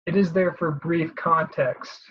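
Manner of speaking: slow line leaning on "brief"; "brief" given deliberate weight in a measured line; stress on brief. Real, not acted. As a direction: stress the word "brief", taking the sentence slowly. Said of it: "Emphasis on the brief".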